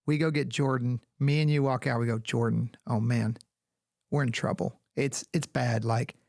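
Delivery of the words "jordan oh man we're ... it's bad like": low, faked worried tone; mock grave bad news. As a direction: break bad news to him, feigning dismay. Staged bad news for a prank.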